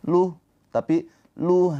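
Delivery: luh, the h breathed out long, not cut; flowing luh. Shown as a demonstration. Teacher contrasts the right flowing luh for students. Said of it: "jangan Rasuluh".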